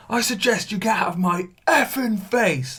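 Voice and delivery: high, put-on angry voice; imitating the angry neighbour; shouting and swearing. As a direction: snap it at the intruder, swearing. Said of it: "shouting and swearing right into my face".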